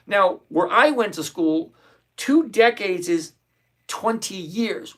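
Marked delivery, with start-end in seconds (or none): 2.2-5.0 slow and enunciated. Shown as a demonstration. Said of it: "I'm gonna say this really slowly".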